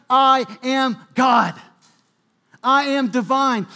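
slow, loud proclamation; preacher proclaims Jesus' claim to be God, loud and slow; emphatic declaration. Acted. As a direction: proclaim it with full weight.

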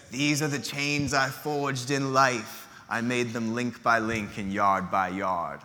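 slow, measured ghostly pronouncement; lightly voiced ghost, drawing out the words; solemn ghost. Jacob Marley's ghost explaining his chains, slow and solemn.

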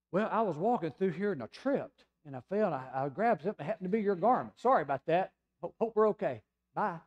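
flustered excuse. Retold or imitated. The preacher imagines excusing himself to Jesus, flustered and fast. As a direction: babble your way out of it. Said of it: "Now, I would have gone".

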